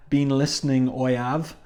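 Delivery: a brief, half-hearted Cockney line; a hint of a Cockney accent, barely attempted; a quick, light Cockney impression, just a taste; token Cockney accent. Shown as a demonstration. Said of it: "he has a Cockney accent".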